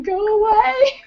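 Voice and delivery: high, sharp shout of go away; woman shouting through her hotel door at a drunk stranger; retold shout. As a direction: yell it at the door, startled awake. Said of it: "like, shouting".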